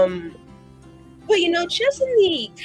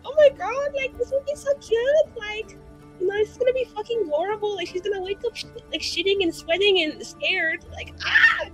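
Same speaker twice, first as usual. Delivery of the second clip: high, gleeful gushing over a prank; high-pitched giddy excitement building to a squeal; giddy scheming; 14 semitones higher than usual. Acted. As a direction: squeal it with wicked delight. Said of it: "and I'm like".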